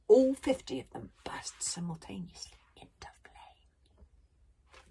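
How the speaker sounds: slow, breathy storyteller's hush; hushed awed narration. A narrator's reading. Storyteller reveals the burning ships, slow hushed drama. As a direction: let it fade slowly for effect.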